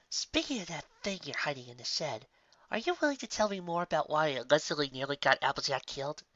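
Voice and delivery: Bon Bon voice. Acted. Bon Bon asking about the shed.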